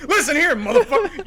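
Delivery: high mock tough-guy challenge; tough guy threat. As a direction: square up and threaten him. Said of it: "You can't fucking be like".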